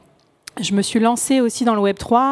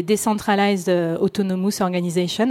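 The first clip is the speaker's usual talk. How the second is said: English words said with a strong French accent; self-mocking French accent on English terms. Real, not acted. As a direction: read the English phrase in a thick French accent. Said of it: "avec mon magnifique accent, euh, anglais".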